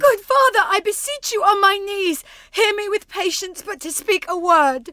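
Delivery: high, urgent begging; pleading. Acted. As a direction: beg him on your knees. Daughter kneeling, begging father.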